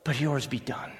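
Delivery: praying it earnestly. Shown as a demonstration. Pastor voicing the congregation's prayer, fading to a hush. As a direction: pray it, then let it fade. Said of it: "pray that prayer and mean it".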